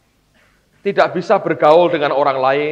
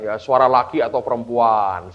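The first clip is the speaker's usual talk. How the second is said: teasing; 4 semitones lower than usual. Retold or imitated. Father playfully questioning his little daughter, lightly teasing. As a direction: tease with a stretched-out last word. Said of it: "saya godain dia".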